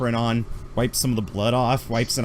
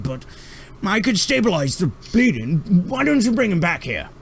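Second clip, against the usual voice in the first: much higher, fussy doctor peering through a monocle; Mon Calamari doctor; 3 semitones higher than usual. Acted. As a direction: play the eccentric alien medic. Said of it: "this Mon Calamari rounds the corner".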